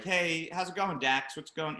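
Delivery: imitated breezy small talk; casual, chatty mimicry of the boss; chitty-chatty. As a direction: act as if no row ever happened. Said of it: "like, chitty chatty".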